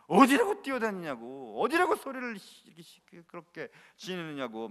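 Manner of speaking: imitating indignant temple elders, trailing off; mock angry scolding. Priests scolding noisy children in the temple, mildly angry. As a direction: scold indignantly, then let it fade. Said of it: "화를 내는 겁니다".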